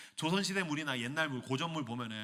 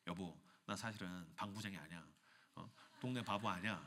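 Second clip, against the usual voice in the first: low earnest confession; 8 semitones lower, 13 dB quieter than usual. Acted. King confessing seriously.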